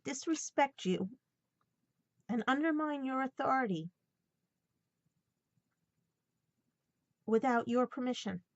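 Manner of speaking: fighting back real tears while reading on; choked up, pushing through the words; tearful reading. Real, not acted. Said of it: "That's why I started crying again".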